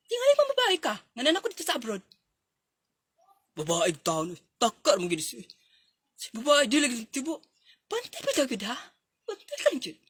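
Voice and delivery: scolding. Acted. Scolding before departure.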